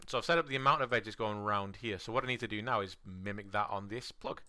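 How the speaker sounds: losing voice, hoarse and strained; rough, worn-out hoarse voice. Real, not acted. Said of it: "I'm losing my voice again".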